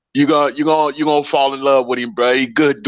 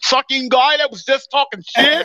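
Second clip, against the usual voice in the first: high-pitched accidental Scottish-sounding put-on; Scottish accent; 10 semitones higher than usual. Friend imitating someone's astonished reaction to a different guy, botched Scottish accent. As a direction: slip into an exaggerated Scottish lilt, pitched way up. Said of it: "was that your Scottish accent".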